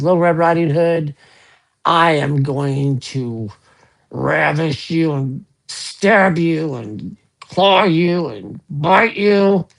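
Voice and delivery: slow, drawn-out big bad wolf threat; menacing big bad wolf. Joke wolf threatening Little Red Riding Hood, slow and hammy.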